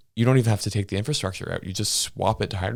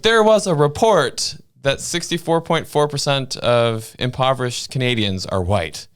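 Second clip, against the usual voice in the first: quoting a clickbait claim; 6 semitones higher, 5 dB louder than usual. Retold or imitated. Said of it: "they're like".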